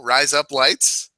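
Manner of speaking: "Rise up lights" drawn out slowly, sounding like Australian "razor blades". Shown as a demonstration. Host showing the accent trick, slow "Rise up lights". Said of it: "it's an Australian person saying razor blades".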